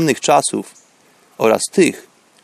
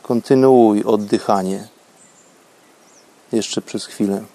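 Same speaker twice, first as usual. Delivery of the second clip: guided meditation; 4 semitones lower than usual. Acted. Prowadzi medytację oddechową. (spokojny głos medytacji)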